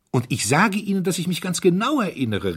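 almost shouting his certainty; excited cry. Acted. Young duke insists to the chairman, excited high cry. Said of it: "rief der Herzog aufgeregt".

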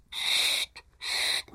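unvoiced hushing hiss; shushing. Maids hushing Angrete, unvoiced and urgent. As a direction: hush her urgently. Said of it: "machten die andern Dirnen".

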